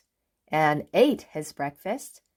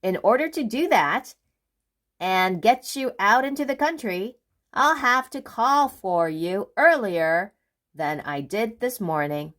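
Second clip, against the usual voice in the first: brisk Mister Busy; 3 semitones higher than usual. Acted. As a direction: hurry it along. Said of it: "went on Mister Busy".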